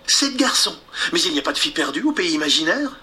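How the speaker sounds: voix de fillette, aiguë, rapide; fillette curieuse. Acted. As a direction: demander avec curiosité. Wendy s'étonne. (Wendy curieuse)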